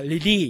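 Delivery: リリー ending on a long "ee"; simplified katakana pronunciation. Shown as a demonstration. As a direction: say relieved as リリー, no "vd". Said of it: "カタカナでいこう".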